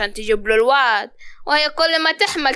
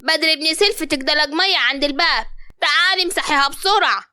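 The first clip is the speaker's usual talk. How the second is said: mother-in-law calling out in alarm to the daughter-in-law; 3 semitones higher than usual. Acted. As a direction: yell for the daughter-in-law to come quick. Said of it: "نعيمة صوتت".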